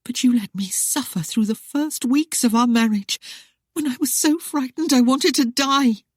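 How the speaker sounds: high, strained tearful reproach; ragged with emotion. Acted. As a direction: pour out her hurt to her husband. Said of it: "voice was ragged with emotion".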